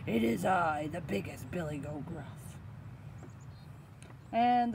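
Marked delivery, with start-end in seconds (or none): 0.1-2.6 big goat's solid, unraised voice; weighty storybook goat. Acted. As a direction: announce it as the biggest goat. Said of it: "said in a big voice".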